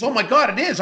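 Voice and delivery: high-pitched imitation of sudden realisation; retold surprise. Girlfriend realising the investment is real, astonished. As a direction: act out her astonished discovery.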